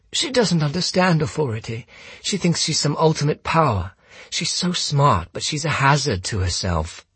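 high, strangled, sincere mimicry; August. Gunman quotes his brother about Holmes, mimicking strangled sincerity. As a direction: imitate an earnest, doubting brother, pitched high. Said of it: "August's strangled sincerity".

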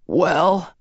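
high, strained character voice, lightly raspy; rasped. A narrator's reading. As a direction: drag it out thinly, high in the voice. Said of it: "she rasped, barely audible".

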